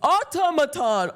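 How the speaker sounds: slow, stiff robot voice; lightly robotic; slow mock robot. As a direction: drag out the word like a machine. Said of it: "That's not how I fucking talk".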